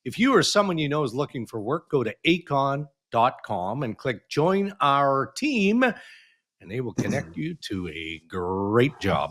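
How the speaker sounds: measured radio ad read, slowing toward the end; sponsor read. Real, not acted. Host reads the show's sponsor message to listeners, sponsor read. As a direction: announce the sponsor with deliberate emphasis.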